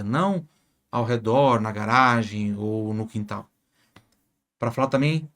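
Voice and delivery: ordinary talk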